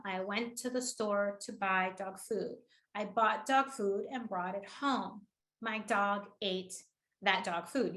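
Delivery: slow, evenly spaced words, softly demonstrated; deliberate rhythm. Retold or imitated. Coach demonstrates the volunteer's rhythm, slow and deliberate. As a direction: take it slowly and quietly, a beat after "ate". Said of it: "her rhythm".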